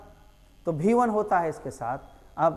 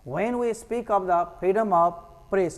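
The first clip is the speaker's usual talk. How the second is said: slow read; much slower than usual. Shown as a demonstration. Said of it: "teacher reads passage slowly".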